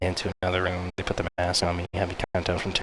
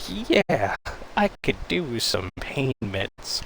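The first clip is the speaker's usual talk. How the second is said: eager relief; 6 semitones higher, much slower than usual. Retold or imitated. Groggy patient accepts pain meds.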